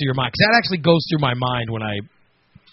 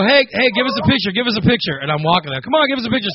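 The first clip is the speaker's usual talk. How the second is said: paparazzi calling; 5 semitones higher than usual. Retold or imitated.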